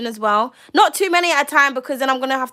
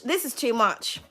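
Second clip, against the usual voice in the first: the same words dropped much softer; softer repeat; 6 dB quieter than usual. Real, not acted. To the viewer about the reading, a much softer echo. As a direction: let it fall away, almost to yourself. Overwhelmed by the card spread.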